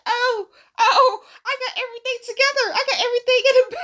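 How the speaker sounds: high, fast and laughing; laughing reaction. Retold or imitated. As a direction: retell it in a loud, giggly high voice. Retold own reaction, laughing while acting.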